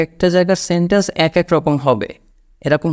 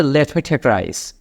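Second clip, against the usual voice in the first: slow model sentence; much slower than usual. Shown as a demonstration. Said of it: "এভাবে বলতে পারেন".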